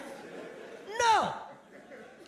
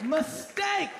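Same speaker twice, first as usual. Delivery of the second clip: shouted verdict; 3 semitones higher than usual. Acted. Punchline shouted.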